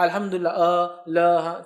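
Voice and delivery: spelling الحمدللہ out as ا, ل, ہ; choppy letter-by-letter read of الحمدللہ; mock letter-by-letter reading. Shown as a demonstration. Teacher mimicking reading Arabic from Hindi script, letter by letter. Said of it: "ہندی میں عربی لکھا".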